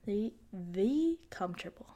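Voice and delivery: playful whisper. Real, not acted. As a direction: drop to a whisper. Aside dropped to a whisper.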